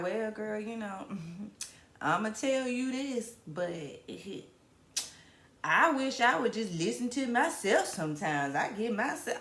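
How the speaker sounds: laughing through her own advice voice; giggly girlfriend advice voice; advice-giving friend voice. Retold or imitated. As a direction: play the wise homegirl, cracking up. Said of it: "I don't know if that's how I talk".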